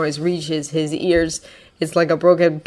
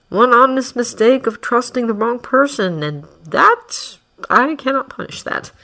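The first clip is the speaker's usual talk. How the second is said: smooth manipulative villain. Acted. Villain persuading boy.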